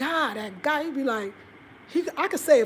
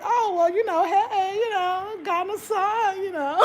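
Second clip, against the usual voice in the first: bashful reply; 7 semitones higher, slower than usual. Retold or imitated. Acts bashful reply to a compliment.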